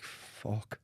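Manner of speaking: stunned hushed whisper; awed whisper. Retold or imitated. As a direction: breathe it out in disbelief. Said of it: "I'm like".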